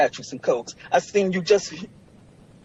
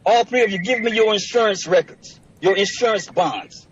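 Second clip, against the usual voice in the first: raised, higher-pitched demand; angry demand; 3 semitones higher than usual. Real, not acted. Litigant demanding records from court officers, heated. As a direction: demand it forcefully from all of them.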